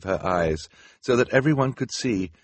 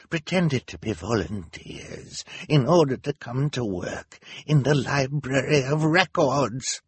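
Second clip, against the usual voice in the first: accusing Hal; 7 semitones higher than usual. A narrator's reading.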